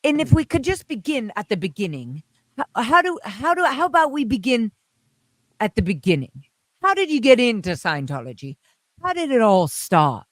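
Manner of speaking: lightly voiced formal TV interviewer; polite, stiff broadcast questioning. Imitating the interviewer asking Hubbard how it started. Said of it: "I totally change into his voice".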